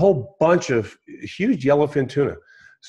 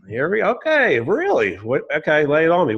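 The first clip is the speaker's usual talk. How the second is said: higher, mock-eager resignation; humouring him; 5 semitones higher than usual. Fisherman braces for businessman's advice, wryly humouring. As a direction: indulge someone about to lecture you.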